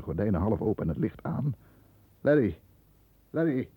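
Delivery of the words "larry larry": loud, high call across the room. Acted. Brother calling to the still figure, loud and alarmed. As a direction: call his name, urgent and loud.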